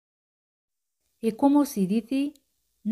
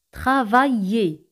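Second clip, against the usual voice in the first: slow model word; 4 dB louder, slower than usual. Shown as a demonstration. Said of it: "se pronuncian como Y".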